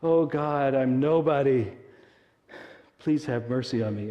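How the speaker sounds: loud pleading prayer, beating his chest; a rabbi's loud, begging prayer; rabbi praying. Acted. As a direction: cry out to God in mock humility. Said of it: "he's beating his chest and he goes".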